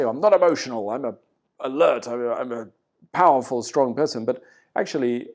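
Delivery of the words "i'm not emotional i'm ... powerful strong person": a hint of a puffed-up tough guy insisting; lightly mock the boastful denial, a bit louder; defensive tough guy. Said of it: "they will say".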